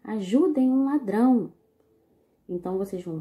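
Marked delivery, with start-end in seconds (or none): 0.0-1.5 raised voice "Ajudem um ladrão"; call for help. Shown as a demonstration. Teacher quoting the comic's first panel, calling out. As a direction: cry out for help, a bit held back. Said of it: "Vamos ver, ó".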